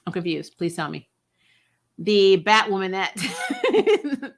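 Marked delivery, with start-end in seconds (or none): 2.0-4.3 slow, breathy mock whisper. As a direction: hush it out like a secret joke. Mocking name for spinoff character.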